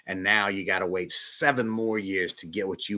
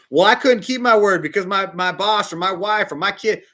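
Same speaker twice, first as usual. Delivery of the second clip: higher and louder whiny excuse; mock excuse-maker; 10 semitones higher, 8 dB louder than usual. Mocking a listener who breaks his word, whiny excuse. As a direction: sound like someone weaselling out of a promise. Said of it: "and you say".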